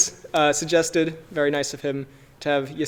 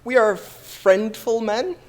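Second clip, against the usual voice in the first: slow dramatic; 5 semitones higher, 5 dB louder, slower than usual. Pretend. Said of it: "terrible way to start".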